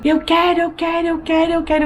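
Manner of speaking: half-hearted imitation of a shouting child; mock childish yell. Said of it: "mas eu gritei tão alto".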